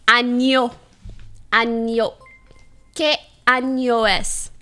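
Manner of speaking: "año" carefully said with an ny sound; deliberate palatal ñ in "año"; año with Spanish ñ. Shown as a demonstration. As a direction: practise "año" as AN-yo. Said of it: "Make sure you say the right N".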